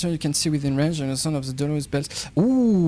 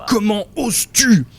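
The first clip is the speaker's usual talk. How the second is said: loud, higher cavernous monster roar; 6 semitones higher, 7 dB louder than usual. Acted. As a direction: boom it out like a cavern creature. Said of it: "une voix caverneuse".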